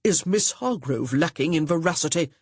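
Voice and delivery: a lightly voiced stern stepbrother; firm and disapproving, a touch gruff. A narrator's reading. Augustin scolding Honor at the breakfast table, mildly stern. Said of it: "said sternly".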